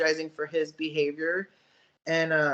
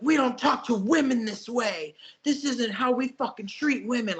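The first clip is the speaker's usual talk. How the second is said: mock angry teacher; 5 semitones higher than usual. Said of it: "'cause he was pissed".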